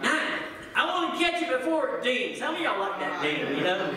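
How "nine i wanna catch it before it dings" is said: higher, eager voice for the impatient person at the microwave; impatient microwave user. Retold or imitated. Impatient person at the microwave, beating the ding: mock eager. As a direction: play someone racing the timer, a touch hammed-up. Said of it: "They were like".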